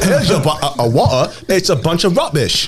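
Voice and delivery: badly faked English accent. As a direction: answer in a mock English accent. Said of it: "I'm awful at accents".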